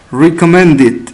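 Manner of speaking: RECOMMENDED ending in a short DID. Shown as a demonstration. Teacher models past of recommend, RECOMMENDED with ID ending. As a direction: stress MEND, add ID in RECOMMENDED. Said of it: "cómo se pronuncia la E D en estos casos".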